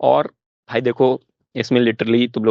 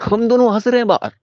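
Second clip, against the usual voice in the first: higher, laughing through the words; laughing while telling; 8 semitones higher than usual. Real, not acted. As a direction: let the giggle carry the line. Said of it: "हम दोनों की हंसी छूट गई". (हँसते हुए बोलना)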